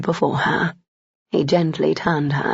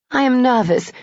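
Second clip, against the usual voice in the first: retorting; 7 semitones higher, 4 dB louder than usual. A narrator's reading. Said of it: "she retorted".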